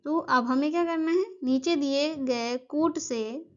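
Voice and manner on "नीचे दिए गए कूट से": slow, spaced out for note-taking; teacher dictating the phrase, slowly and evenly; slow dictation. Shown as a demonstration. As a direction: dictate it slowly so students can write. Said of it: "यहाँ कोट कर लीजिए".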